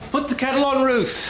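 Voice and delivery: high, breezy call across the room. Acted. Doctor calls out to receptionist.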